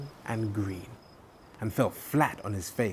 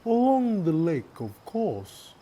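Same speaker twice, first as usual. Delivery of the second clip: beaming; 9 semitones higher, 5 dB louder than usual. Acted. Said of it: "beamed Turtle".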